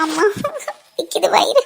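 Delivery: slow, high, drawn-out pained moan; faked stomach pain. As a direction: act out a stomach ache, stretching each word. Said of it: "நடிக்காதடி". (நடிப்பான வயிற்றுவலி முனகல், மெதுவாக)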